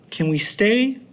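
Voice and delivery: put-on high pleading kid voice; high-pitched kid asking; childish whine. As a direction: ask like an indecisive little kid. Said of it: "the kid is very indecisive".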